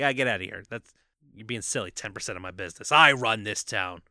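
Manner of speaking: low, muttered mob-boss brush-off; dismissive. Acted. Big Boy refusing the offer from Keys, dismissive. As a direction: wave him away under your breath, then land the last words. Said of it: "who refuses and dismisses him".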